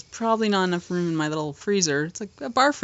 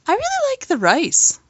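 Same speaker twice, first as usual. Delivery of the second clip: son voice; 6 semitones higher, 3 dB louder than usual. Retold or imitated.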